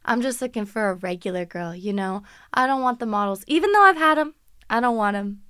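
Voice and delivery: lightly voiced smug influencer; a hint of a boastful guy; mock humble bragging; humblebrag imitation. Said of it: "he tried to be like".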